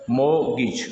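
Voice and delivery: mortgage with silent t, ending 'gich'; correct pronunciation. Shown as a demonstration. Teacher models it for learners, mortgage as MO-gich. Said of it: "mortgage नहीं होता है".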